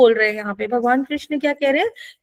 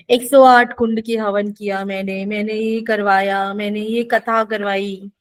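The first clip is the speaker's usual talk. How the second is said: lightly voiced show-off, lower than usual; mock boasting; 3 semitones lower than usual. Teacher mimicking people who do rituals just for show, mock boasting. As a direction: reel off the deeds with slow, mock self-importance. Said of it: "सिर्फ दिखावे के लिए कर रहे हैं".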